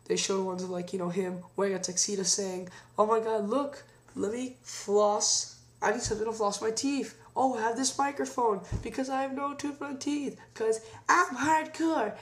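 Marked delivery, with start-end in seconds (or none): 3.0-12.1 higher goofy voice, slowing down on I'm hardcore; Mick Foley voice. Retold or imitated. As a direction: ham up a toothless wrestler bragging. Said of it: "in that exact voice".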